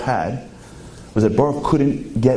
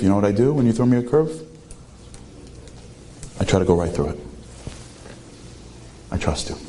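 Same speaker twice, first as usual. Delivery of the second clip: quiet prayer; 2 semitones lower, 4 dB quieter than usual. Acted. Baruch prays to God in loss.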